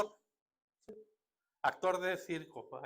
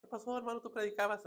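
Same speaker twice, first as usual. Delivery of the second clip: high-pitched, softly needling brother; raised-pitch incredulous question; mock reproach; 5 semitones higher, 3 dB quieter than usual. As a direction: imitate a churchgoer chiding a preacher.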